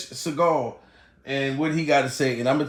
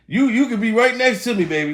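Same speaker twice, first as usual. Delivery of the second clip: Steve Harvey impression; 6 semitones higher than usual. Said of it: "now I sound like Steve Harvey".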